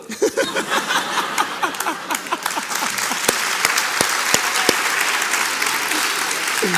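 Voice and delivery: loud, long burst of laughter. Real, not acted. After acting out her yell, long laugh. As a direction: laugh hard at your own story.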